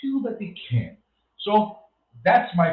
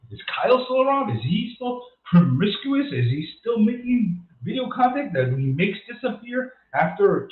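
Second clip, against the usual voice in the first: higher, needling sarcastic questions; mocking teasing; 6 semitones higher than usual. Real, not acted. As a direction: needle Kyle about his antics. Teasing absent viewer Kyle.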